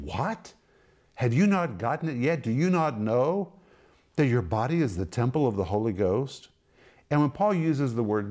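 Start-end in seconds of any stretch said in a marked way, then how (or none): 0.0-6.5 Paul's incredulous what, have you not gotten it yet; exasperated exclamation. Retold or imitated. Paul rebuking Corinthians, incredulous exclamation. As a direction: press them like a baffled apostle. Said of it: "it is an exclamation".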